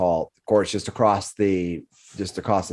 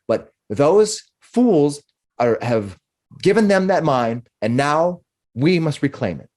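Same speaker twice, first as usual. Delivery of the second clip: high, pressing voice that starts much higher; urgent councilwoman Lenine; 3 semitones higher than usual. Acted. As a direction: insist that we must act now. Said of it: "but the voice says".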